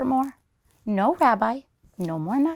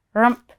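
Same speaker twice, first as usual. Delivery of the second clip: bear grunt; 3 semitones higher, 6 dB louder than usual. Acted. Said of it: "he growled".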